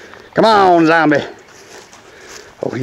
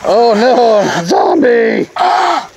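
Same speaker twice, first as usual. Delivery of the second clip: mock panic; 8 semitones higher, much slower than usual. Zombie attacks, mock panic.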